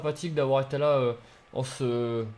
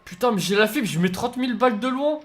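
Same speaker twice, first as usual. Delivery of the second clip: angry shout; 9 semitones higher, 7 dB louder than usual. Real, not acted. Gamer killed in match, shouting.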